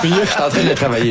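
laughing reply. Real, not acted. Actor defends his shaky French accent, laughing. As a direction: answer the teasing through real laughter.

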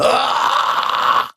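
harsh, distorted held "ah"; sustained metal-style distorted vowel; vocal distortion. Shown as a demonstration. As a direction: corrupt the "ah" into an unpitched rasp. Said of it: "le signal est corrompu".

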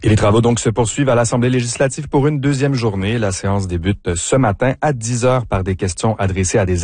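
even, formal newscast delivery; news read. Acted. Host opening the morning news bulletin, formal news read. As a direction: read the headlines like the radio news.

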